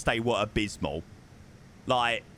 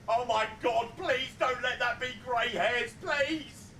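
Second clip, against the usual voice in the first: high, pleading whine; mock panic; 9 semitones higher than usual. Real, not acted. Streamer pleads that it isn't grey hair, in mock panic. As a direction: beg the universe not to be grey.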